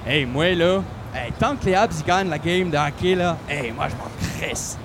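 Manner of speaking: gruff Quebec street guy, dragging the last line; interviewed passer-by, lightly voiced Quebec joual; Quebec hockey fan. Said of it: "vous êtes plus elfe ou nain?".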